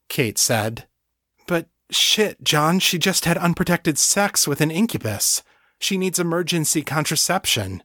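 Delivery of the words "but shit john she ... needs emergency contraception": alarmed. A narrator's reading. Kate alarmed about pregnancy risk.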